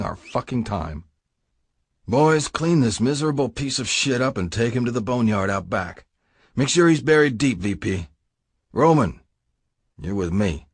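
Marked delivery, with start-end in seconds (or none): 2.1-10.7 lightly voiced boss handing out orders; curt orders from the boss. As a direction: give the cleanup order coldly. Prez gives orders.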